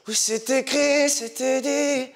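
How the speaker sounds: airy pop singer imitation, slow; sing-speak it like a singer, breathy. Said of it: "tu prends la voix d'un chanteur".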